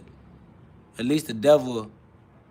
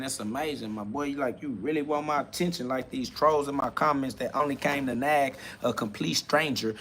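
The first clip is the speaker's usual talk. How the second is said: muttered aside; 2 semitones lower, 10 dB quieter than usual. Real, not acted. Annoyed aside to trolls in comments.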